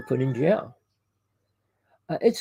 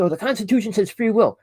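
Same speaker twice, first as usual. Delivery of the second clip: mocking quote; 6 semitones higher than usual. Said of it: "And people say".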